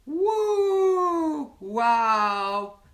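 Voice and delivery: a high, delighted woo then wow; stunned by her beauty; amazed gasp. Retold or imitated. Narada first sees the woman, amazed.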